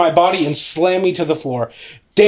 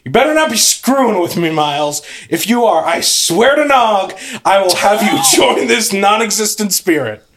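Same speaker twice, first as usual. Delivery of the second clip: irritated warning; 4 semitones higher than usual. Acted. Narrator warns brother over board.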